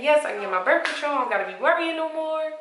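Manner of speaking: high, quick giddy joy over "Yes, I can get my birth control"; bubbling over, yes at last; excited and happy. Retold or imitated. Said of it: "I was all happy, excited".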